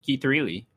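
"Reilly" said as "Threely"; imitated mispronunciation. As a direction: repeat it with "Reilly" as "three-lee". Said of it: "as Daniel likes to say".

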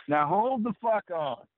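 high, slow, drawn-out disbelief; incredulous buddy. Retold or imitated. Hunting buddy halting the truck, high slow incredulous drawl. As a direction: stretch it out like you can't believe him.

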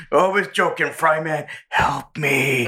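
cheery deflection sliding into a plea for help; Carl's voice. Retold or imitated. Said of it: "Carl quote continues".

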